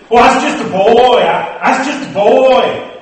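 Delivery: lightly voiced preacher telling how he was saved; mock preacher testimony. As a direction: mimic other preachers' testimony. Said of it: "Some will say".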